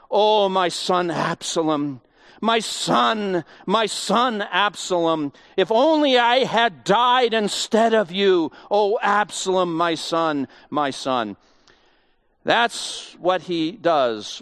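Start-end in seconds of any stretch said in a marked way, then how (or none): 0.1-11.4 a touch of lament, drawn out; understated mourning wail; mild grieving cry. Acted. David mourning Absalom over the gateway, mildly lamenting. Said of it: "he cried".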